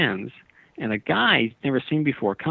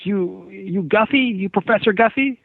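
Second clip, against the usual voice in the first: put-on Southern accent; 9 semitones higher than usual. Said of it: "this guy with a Southern accent".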